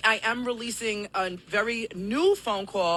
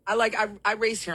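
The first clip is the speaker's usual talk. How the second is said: out of breath; 4 semitones higher, faster than usual. Real, not acted. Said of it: "still trying to catch my breath".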